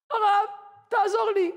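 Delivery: high, begging woman's voice; pleading woman. Retold or imitated. Desperate woman begs the rabbi, high and pleading.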